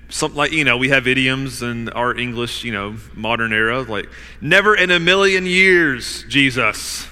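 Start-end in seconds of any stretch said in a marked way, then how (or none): 4.4-7.1 louder, higher, emphatic refusal; forceful refusal. Acted. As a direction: refuse Jesus with full force. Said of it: "That's kind of the force here".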